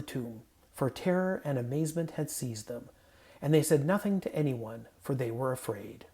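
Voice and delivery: measured, solemn reading of the Gospel; scripture reading. Acted. Pastor reading scripture to the congregation, solemn. Reads Gospel passage aloud.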